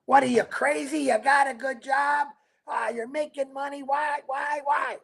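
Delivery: mock incredulous naysayer; lightly voiced scoffing skeptic; a hint of a doubter saying you're crazy; imitating a naysayer. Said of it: "let me do an imitation".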